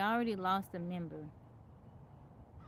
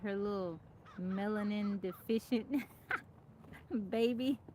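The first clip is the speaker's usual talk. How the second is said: imitating friend's blunt remark. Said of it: "why you gotta say it like that".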